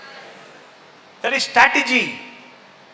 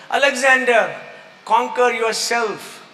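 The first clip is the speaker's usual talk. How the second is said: slow solemn counsel; 3 semitones higher, slower than usual. Retold or imitated. Holy man answers Alexander the Great, slow solemn counsel. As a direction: stretch it out like a sage's lesson.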